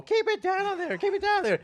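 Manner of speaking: high, loud yell from next door; roommate yelling through the wall. Retold or imitated. Annoyed roommate shouting through the wall, high and loud. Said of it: "This girl's banging on the wall".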